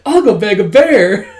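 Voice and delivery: can barely get the words out for laughing; laughing through the line. Real, not acted. Reading a line while laughing.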